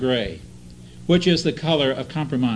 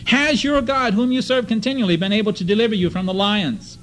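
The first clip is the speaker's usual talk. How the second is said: raised, pleading call of an anguished king; 5 semitones higher than usual. Retold or imitated. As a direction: cry out to Daniel with a hint of anguish. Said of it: "And a tone of anguish said to Daniel".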